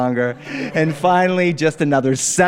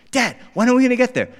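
put-on whiny kid; 9 semitones higher, faster than usual. Kid whining in car.

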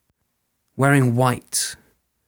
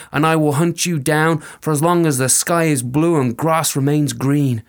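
threatening fairy woman; 2 semitones higher, 3 dB louder than usual. Acted. Fairy woman curses the soldier, raised and stern.

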